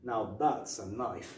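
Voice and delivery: slow, deliberate film catchphrase; Crocodile Dundee. Retold or imitated. Quoting the guy pulling the knife, slow catchphrase. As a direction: draw the line out slowly. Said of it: "the guy himself goes".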